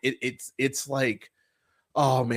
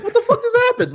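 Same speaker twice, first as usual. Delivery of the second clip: much higher, louder disbelieving cry; stunned shout at the screen; retold outraged shout; 8 dB louder, faster than usual. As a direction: yell it like the film just broke. Retold outrage at abrupt ending.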